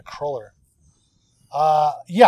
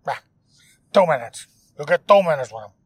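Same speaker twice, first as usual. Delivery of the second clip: weird guy voice. Retold or imitated. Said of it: "Like the weird guy's voice".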